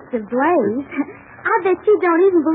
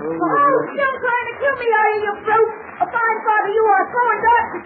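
tearful accusation; 4 semitones higher than usual. Acted. Daughter accuses father of attack.

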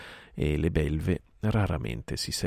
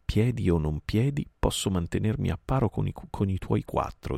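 curt; 4 semitones higher than usual. Acted. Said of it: "disse Ka brevemente".

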